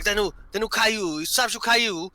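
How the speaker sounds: put-on drunk brother ramble. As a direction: lightly mimic a drunk fan rambling. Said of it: "he's like".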